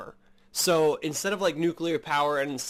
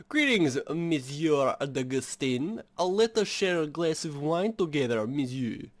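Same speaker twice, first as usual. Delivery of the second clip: put-on French accent. Game character greeting Monsieur D'Agustin in a French accent. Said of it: "weirdest French accent I have".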